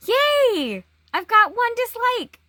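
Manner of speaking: high, loud cheer of mock delight; mock celebration. Vlogger announcing a first dislike, mock-celebrating. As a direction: celebrate it like a hammed-up win.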